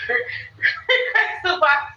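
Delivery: slow, laughing request. Real, not acted. Host repeating her ask to viewers, laughing. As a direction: laugh it out slowly.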